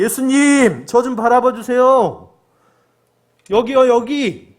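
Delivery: high, drawn-out call from afar; loud shouting. Acted. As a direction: shout to be seen across a distance. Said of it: "소리 크게 외치는 거예요".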